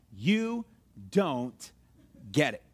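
word by word, with pauses; not angry. Acted. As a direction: set each word apart, without anger. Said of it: "it was not an angry one".

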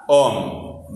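low, isolated "Om"; stressed syllable alone. Shown as a demonstration. Teacher singling out the strong syllable, stressed "Om". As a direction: sound out "Om" by itself, low and firm. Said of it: "Escucha el sonido".

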